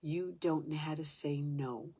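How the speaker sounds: slowed down, each word weighed; slow deliberate repeat. Retold or imitated. Facilitator repeats it to her slowly, deliberate. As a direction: let the line sink in slowly. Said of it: "He says".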